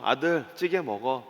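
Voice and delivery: quiet, slow motherly line; feigned unawareness. Acted. Mother serving her son stew, quietly pretending not to know. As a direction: say it softly, as if knowing nothing. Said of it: "모른 척하고 조용히".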